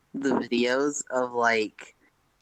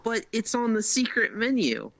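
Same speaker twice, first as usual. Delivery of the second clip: high-pitched mock protest; imitated insistent customer; 10 semitones higher than usual. Customer arguing with fast food worker, mock protest. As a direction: plead it in a high put-on voice. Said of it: "was the guy like".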